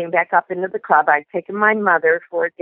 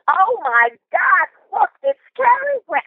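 excited mother; 13 semitones higher than usual. Retold or imitated. Daughter imitating her starstruck mother spotting Cary Grant, high squeal. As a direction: gasp it out like a starstruck mom spotting a star. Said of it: "she goes".

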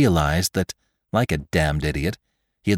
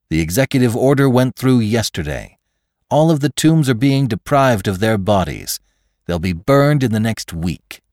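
lightly voiced insistent reasoner, higher; McClure; 4 semitones higher, 3 dB louder than usual. Victim breaks bad news to his attacker, insistent. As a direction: argue him down, pitch lifted.

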